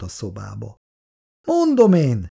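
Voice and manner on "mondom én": embarrassed stammer. A narrator's reading. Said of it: "dadogta zavartan".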